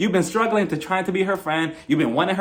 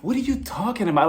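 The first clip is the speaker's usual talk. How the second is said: playing dumb; 4 semitones higher than usual. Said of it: "acts like she doesn't know".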